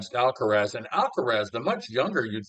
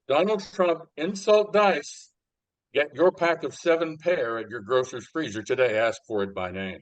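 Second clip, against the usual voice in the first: chipper 1950s ad. Acted. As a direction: sell it like an old ad. Fake ad slogan, slowed.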